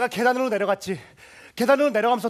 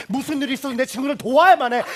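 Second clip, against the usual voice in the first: louder, determined; resolute vow; 5 semitones higher, 6 dB louder than usual. Acted. He vows to himself to help his friend, loud and determined. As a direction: steel yourself.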